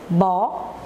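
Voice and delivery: "Boneca" broken into bo... ne... ca, long pauses between; very slow syllable-counting demo of "Boneca". Shown as a demonstration. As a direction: say "Boneca" one isolated syllable at a time. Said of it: "Cada pedacinho desse, a gente abre a boca".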